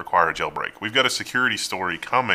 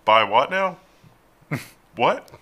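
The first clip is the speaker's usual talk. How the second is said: incredulous; 5 semitones higher, 4 dB louder, slower than usual. Real, not acted. Incredulous at buying own data.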